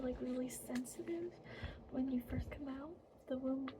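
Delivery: gentle unvoiced whisper; fairy whisper. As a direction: hush it for sensitive ears.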